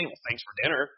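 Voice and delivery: mock-sarcastic thanks for a meal. Wife misreading husband's text about dinner, sarcastic. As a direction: say it as a dig, imitating sarcasm. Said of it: "she heard him say".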